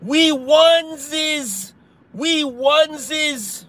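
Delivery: high, slow, mock-gleeful cheer; high mock cheer for the CNN crowd. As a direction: parody a gullible news watcher cheering. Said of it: "Talking about".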